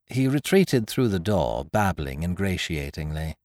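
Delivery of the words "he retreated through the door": ordinary delivery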